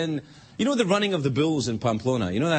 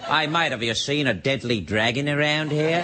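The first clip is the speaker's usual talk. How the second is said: New Zealand hobbit; 3 semitones lower than usual. Acted. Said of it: "if a wee hairy hobbit comes up to you and says".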